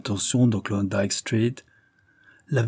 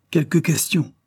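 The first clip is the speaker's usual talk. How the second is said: roared; 7 semitones higher, 3 dB louder than usual. A narrator's reading. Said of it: "rugit l'homme".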